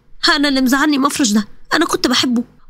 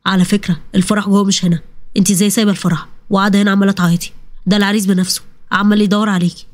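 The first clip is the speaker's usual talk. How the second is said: a lower male voice, gently curious; lightly voiced young man; 5 semitones lower than usual. A stranger at the wedding questions the crying bride, lightly lowered male voice. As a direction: play the stranger who hands her a tissue.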